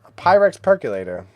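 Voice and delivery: loud, booming announcer call. Shown as a demonstration. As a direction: announce it like a fighting game. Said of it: "this is why I'm working on my announcer voice".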